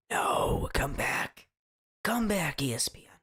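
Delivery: forceful stage whisper, mock desperation; whispered calling. Host calls after the vanished ESPN stream, whispered calling.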